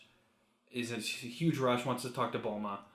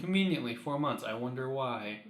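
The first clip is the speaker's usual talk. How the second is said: mock wondering; 2 semitones higher than usual. Real, not acted. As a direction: feign curiosity about a plot convenience. Sarcastic jab at the plot.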